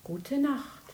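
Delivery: fading into a whisper; whispered goodnight. Acted. Little bear answers big bear, whispered goodnight. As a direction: breathe it sleepily.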